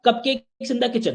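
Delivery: slow, spaced-out delivery; slow careful tongue twister. Shown as a demonstration. Teacher slows the tongue twister down for students. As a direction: stretch out "cupcakes in the kitchen" very slowly. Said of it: "देखो".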